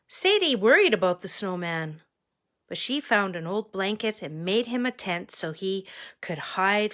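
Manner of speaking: expressive storytime reading; story narration. A narrator's reading. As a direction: read suspensefully to children. Reads picture book to children.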